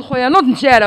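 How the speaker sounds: rally the brother to run now; urgent call. Retold or imitated.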